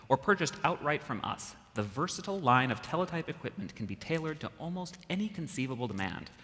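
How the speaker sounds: lightly voiced 1950s ad announcer; a hint of vintage radio pitchman; old-timey radio announcer. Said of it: "go old-timey radio announcer".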